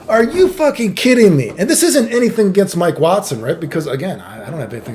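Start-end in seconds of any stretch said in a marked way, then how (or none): 0.1-1.5 high, laughing mock outrage; laughing at getting robbed by a fire alarm; laughing disbelief. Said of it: "I was like".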